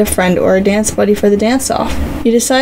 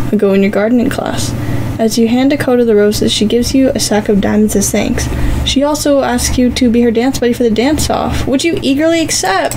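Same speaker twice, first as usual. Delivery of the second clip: bright, even storyteller read; story narration. A narrator's reading. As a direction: read the story to your viewers. Reads interactive story narration.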